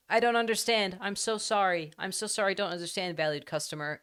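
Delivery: high-pitched over-apologizing assistant, sinking at the end; mock-frantic apology from a voice assistant; apologetic Japanese Alexa. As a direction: grovel in a high customer-service voice. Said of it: "so you just go like".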